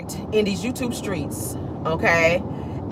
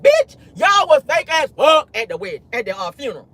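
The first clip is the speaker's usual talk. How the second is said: mock yell; 5 semitones higher than usual. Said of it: "Uncle Ellis said".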